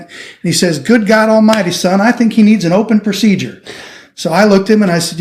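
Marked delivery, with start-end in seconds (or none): 0.8-3.6 higher-pitched imitation of a Southern accent; lightly imitated Southern doctor, pitched up. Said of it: "in his southern accent".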